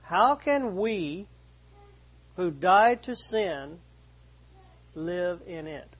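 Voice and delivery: slow, deliberate verse reading; slow scripture reading. Acted. Pastor reading verse two to the class, slow and deliberate. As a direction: read each phrase slowly, letting it land.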